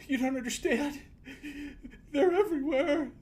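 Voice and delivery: whimpering. Acted. Kellum pleading with Titus about the danger, high frightened whimper. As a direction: beg them to believe you, high and scared. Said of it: "he's like".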